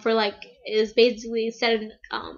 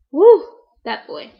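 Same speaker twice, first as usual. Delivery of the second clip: louder, slow gushing whoop; excited whoop; 2 semitones higher, 8 dB louder, slower than usual. Real, not acted. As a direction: let out a fangirl whoop. Gushing over her celebrity crush.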